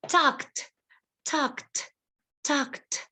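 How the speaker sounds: "Talked" as one syllable with crisp kt; short "Talked", voiceless at the end. Shown as a demonstration. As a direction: release a clear t after the k in "Talked". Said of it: "With the letter T".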